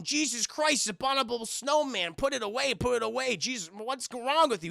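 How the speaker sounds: high, alarmed mock yell; startled yelling coach; shocked yell. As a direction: recoil in horror at the sight. Coach freaks out at hairy ass.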